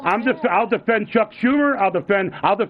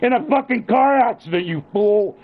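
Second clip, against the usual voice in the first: heated scolding; 2 semitones higher than usual. Real, not acted. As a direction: hammer each accusation at him. Father berates son in quarrel.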